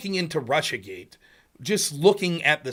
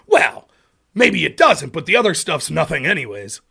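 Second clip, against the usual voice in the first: mock backpedal; 7 dB louder than usual. Mocking opponent's backpedal.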